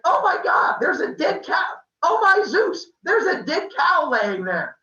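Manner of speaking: high, loud hammed-up shriek; alarmed yelling. Maya wakes up beside a dead cow, shocked yelling. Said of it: "they start yelling back and forth".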